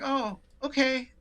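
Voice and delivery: high, slow, mollified reply; taken aback. Retold or imitated. Upset customer offered tea, taken aback. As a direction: imitate a caller suddenly disarmed.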